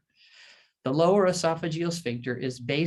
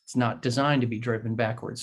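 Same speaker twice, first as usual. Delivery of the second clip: polite; 2 semitones lower than usual. Retold or imitated. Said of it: "very politely says".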